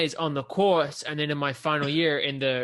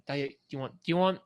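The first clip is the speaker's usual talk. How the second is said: halting mock Scottish accent; thick Scottish accent; faster than usual. Mimicking the service station man, Scottish accent. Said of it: "very thick accent".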